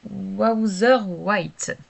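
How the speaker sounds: slow English product name in a French accent. Real, not acted. Crafter reading an English powder name to viewers, French accent. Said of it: "vous voyez mon accent anglais".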